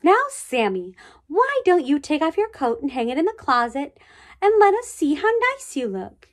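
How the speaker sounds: high, coaxing, sing-song teacher; sweet teacher voice. Acted. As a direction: coax a shy boy sweetly. Teacher coaxes Sammy.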